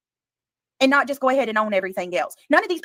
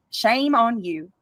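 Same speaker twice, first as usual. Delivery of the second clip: slow scolding; much slower than usual. Real, not acted. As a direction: Shame on you spoken slowly, each word weighed. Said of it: "scolding, slowed".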